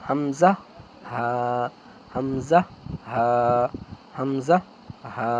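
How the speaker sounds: হামজা said as a glottal stop, হা as a breathy h; Arabic letter demo. Shown as a demonstration. Quran teacher demonstrating letters to students, articulated. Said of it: "আমি বলছি উচ্চারণগুলো".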